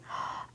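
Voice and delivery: short, soft intake of breath; storyteller's quick gasp; alarmed gasp. Pretend. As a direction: gasp at sudden danger on the page. Reacts to dangerous picture.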